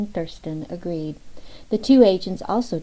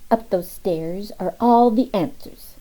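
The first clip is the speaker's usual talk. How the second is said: put-on mysterious child; 3 semitones higher, 5 dB louder than usual. Boy pointing at the Capitol.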